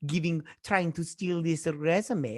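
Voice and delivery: slow mock Hispanic accent; stereotypical Hispanic accent. Host imitates Terrence accusing her of stealing, stereotypical Hispanic accent. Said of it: "the Hispanic accent".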